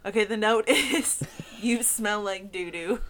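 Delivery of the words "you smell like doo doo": put-on Russian accent. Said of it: "in accented English".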